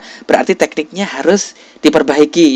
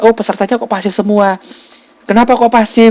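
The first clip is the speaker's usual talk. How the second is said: puzzled surprise; 7 semitones higher than usual. Acted. Acting out a puzzled evaluator.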